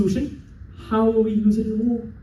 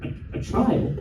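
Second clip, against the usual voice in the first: puzzled echo; 4 dB quieter, slower than usual. Real, not acted. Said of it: "let me redo that".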